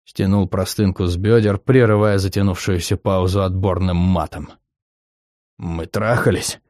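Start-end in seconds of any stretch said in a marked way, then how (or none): 5.6-6.6 through gritted teeth. Acted. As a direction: squeeze "трахались" out slow and softer. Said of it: "процедил сквозь зубы".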